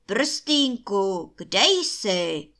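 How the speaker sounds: loud giant's calling-out; shouted call. A narrator's reading. Giant calls to his magic ring, loud shout. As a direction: call out loudly, as if searching. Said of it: "obr chvilku čekal a potom vykřikl".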